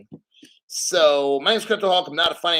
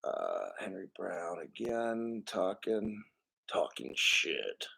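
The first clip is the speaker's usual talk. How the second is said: mock gruff voice; 8 semitones lower, 13 dB quieter, slower than usual. Teasing a viewer.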